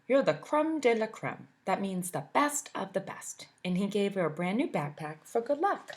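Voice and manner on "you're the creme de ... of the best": dad sending his daughter off to school. Acted. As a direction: boast like a proud father. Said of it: "her dad said".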